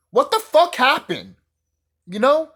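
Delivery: indignant at Hollywood; real frustrated outburst; exasperated rant. Real, not acted.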